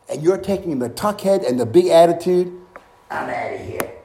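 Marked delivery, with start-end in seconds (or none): 3.1-3.9 1 mock proud exit. Preacher acts proud Naaman leaving.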